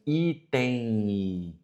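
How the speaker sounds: item said the everyday way, M sounding like I; spoken pronunciation. Shown as a demonstration. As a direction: say item as people really say it. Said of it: "quando nós falamos assim".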